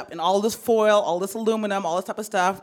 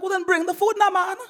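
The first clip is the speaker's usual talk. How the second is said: mom's voice, much higher; voicing mom; 11 semitones higher than usual. Mom insisting her son bring the food, high mock mom voice. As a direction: pitch way up for mom's comeback.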